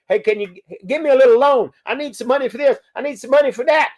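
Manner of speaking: begging in-law. Retold or imitated. In-laws begging for loans.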